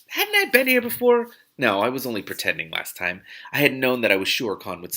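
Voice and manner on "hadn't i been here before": high, loud startled question; sudden realisation. A narrator's reading. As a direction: jolt of recognition.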